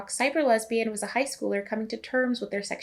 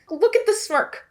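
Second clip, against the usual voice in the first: laughing; 11 semitones higher, 6 dB louder than usual. Real, not acted. Laughing at film clip.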